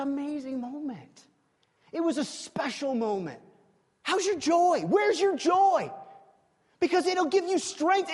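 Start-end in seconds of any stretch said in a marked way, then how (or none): 4.0-8.1 preaching shout. Real, not acted. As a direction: hammer the question home. Preacher calling to congregation.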